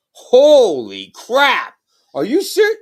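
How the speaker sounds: slow then high, stunned voice; amazed. Retold or imitated. People seeing the parrot live react in loud amazement. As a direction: gasp it out, blown away. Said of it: "they're like".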